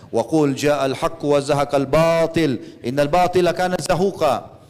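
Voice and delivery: slow, measured Arabic recitation; Quranic recitation. Retold or imitated. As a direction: recite the verse with drawn-out vowels. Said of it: "sambil membaca". (melantunkan ayat Al-Quran perlahan)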